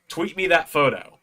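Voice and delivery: a rough hint of the star's voice; Joe Hendry. Wrestler asks fan to tweet a photo, lightly impersonated. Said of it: "not the best Joe Hendry impression".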